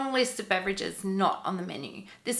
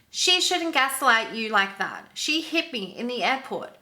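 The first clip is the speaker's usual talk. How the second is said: mildly raised, indignant complaint; retold loud complaint; 3 semitones higher than usual. Passenger complaining to the flight attendant, mildly loud. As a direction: imitate someone complaining for others to hear. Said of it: "loudly says".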